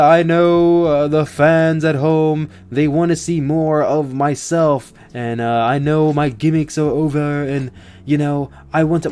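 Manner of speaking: a hint of Matt Hardy's voice, lightly done; imitating Matt Hardy. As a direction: quote Matt Hardy with a touch of his manner. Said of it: "why am I doing his accent?".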